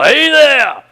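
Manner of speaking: loud, high shout across the dump; big yell. Retold or imitated. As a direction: call out to get his attention. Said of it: "he gives me a big yell".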